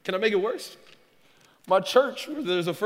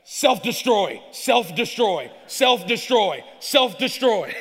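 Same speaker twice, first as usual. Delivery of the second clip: mock inner scream; 7 dB louder, slower than usual. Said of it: "just is screaming twenty-four seven".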